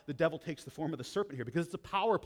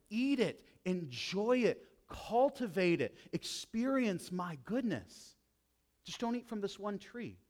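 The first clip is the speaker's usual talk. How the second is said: God's generous voice; 5 semitones higher than usual. Acted. Preacher voicing God giving Adam and Eve the garden, unhurried. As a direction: offer it all like a generous father.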